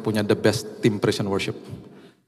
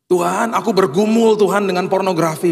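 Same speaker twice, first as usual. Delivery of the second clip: pleading prayer; 8 semitones higher, 4 dB louder than usual. Acted. Acted example prayer of struggle.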